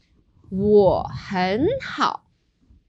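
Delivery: 我很好 said slowly, each tone drawn out; slow model third tones. Shown as a demonstration. Teacher models the phrase slowly for student, slow clear tones. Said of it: "let's do some practice".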